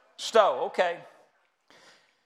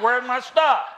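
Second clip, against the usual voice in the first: put-on forgetful old person; 6 dB louder, slower than usual. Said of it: "y'all gonna be like".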